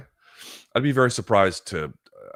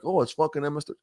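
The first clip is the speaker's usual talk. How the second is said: mocking voice; 8 semitones higher than usual. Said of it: "and then being like".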